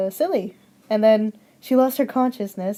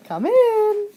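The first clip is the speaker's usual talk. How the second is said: wolf yelling; 10 semitones higher than usual. Acted. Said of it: "the wolf yelled".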